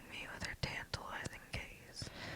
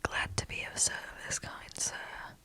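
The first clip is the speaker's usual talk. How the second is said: put-on a lightly goofy British accent, a touch louder; 4 dB louder than usual. Mark answering Jay in a goofy British accent. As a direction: ham up a silly British accent, barely. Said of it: "in his goofiest British accent".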